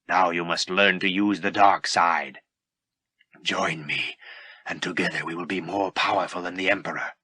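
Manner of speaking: lightly voiced Vader.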